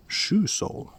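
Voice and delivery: usual speaking voice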